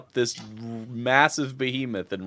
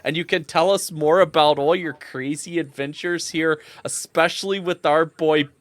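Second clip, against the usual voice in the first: higher, enthusiastic villager voice; celebrating villager; 4 semitones higher than usual. Acted. Villager inviting heroes to the feast, enthusiastic. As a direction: welcome the heroes to a party.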